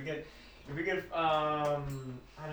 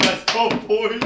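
a hint of a gleeful cartoon mouse; 5 semitones higher, 9 dB louder, slower than usual. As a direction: cheer it like a greedy mascot. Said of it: "The Demented Mouse be like".

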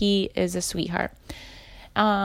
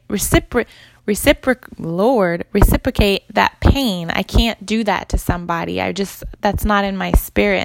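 emotional outburst. Retold or imitated. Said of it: "just an emotional wreck".

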